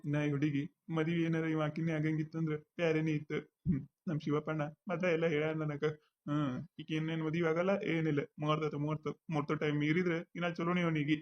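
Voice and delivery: low sly aside under the breath; muttered aside. Acted. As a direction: say it under your breath, mostly to yourself. Muttered aside about the groom.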